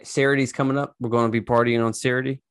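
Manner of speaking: put-on playful take on a Delco accent. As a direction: play along in a Delco accent. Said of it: "real Delco accident".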